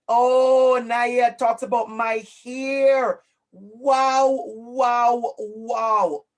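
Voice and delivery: loud, drawn-out wows of amazement; amazed. Real, not acted. Teacher reacting to a student's answer, amazed. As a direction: react big, stretching out each exclamation.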